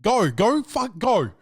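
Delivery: shooing her along; mock frantic go go go; impatient urging. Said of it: "I'm like".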